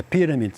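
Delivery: pyramid with the stress on the first syllable PY; pyramid, land hard on PY and keep the rest light; correct stress. Shown as a demonstration. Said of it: "o acento correto".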